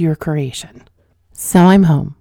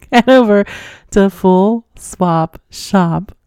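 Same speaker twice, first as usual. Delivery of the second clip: laughing; 3 semitones higher, 4 dB louder, slower than usual. Real, not acted. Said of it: "it's a tongue twister for me".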